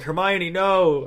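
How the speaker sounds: slow, drawn-out horrified no. Retold or imitated. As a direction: recoil in dread. Husband recoiling in horror.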